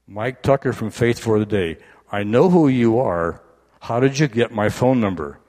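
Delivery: half-awake disbelief at the caller; surprised. Retold or imitated. Woken wife recognising caller.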